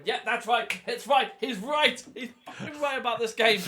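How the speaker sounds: smug cheering fan, rising each line; mock triumphant fan cheering; gleeful fans. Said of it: "who are high-fiving each other, going".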